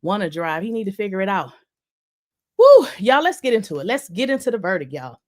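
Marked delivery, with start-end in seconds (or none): 2.6-2.9 short high "woo"; high, lively exhale of excitement; excited whoop. Real, not acted. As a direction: let out a quick whoop before starting. Gearing up to discuss verdict.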